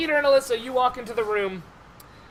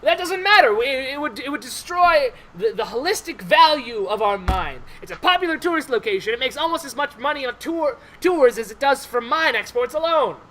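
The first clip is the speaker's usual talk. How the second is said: mildly heated dwarf protest; lightly voiced indignant dwarf; 3 semitones higher than usual. Indignant dwarf argues with the player.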